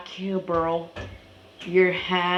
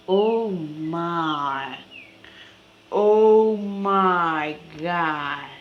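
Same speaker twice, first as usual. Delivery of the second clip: drawn-out amazement; much slower than usual. Real, not acted. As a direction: stretch every word out in awe. Repeated exclamation, drawn out.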